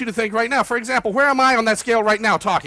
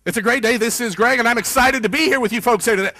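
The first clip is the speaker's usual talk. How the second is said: normal fast pace; 2 semitones higher, 3 dB louder than usual. Shown as a demonstration. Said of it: "What do you normally speak like".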